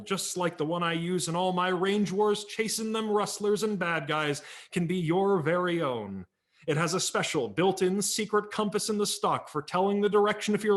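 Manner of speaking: put-on a comic-book hero talking straight to the boys; Red Ryder voice. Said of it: "Red Ryder continued".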